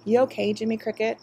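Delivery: put-on gentle, softened question to the child. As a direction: ease off into kindness. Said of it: "His voice softened".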